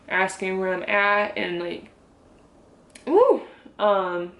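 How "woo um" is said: fighting tears, breath catching; trying to steady herself before crying; holding back tears. Real, not acted. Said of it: "I need to calm down before I start crying".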